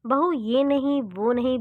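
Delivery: mother-in-law ordering the daughter-in-law about during the puja; bossy shout. Acted. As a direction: bark the no's across the room. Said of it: "सास चिल्लाती".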